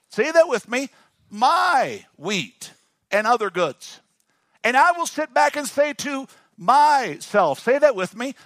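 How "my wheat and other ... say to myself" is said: high, loud rich man planning bigger barns; boastful rich man. Acted. Preacher voicing the rich man planning bigger barns, high and boastful. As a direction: pitch it up and boast.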